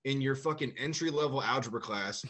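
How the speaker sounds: building to a heated rant; angry retort. Retold or imitated. Retorting to the arrogant teacher.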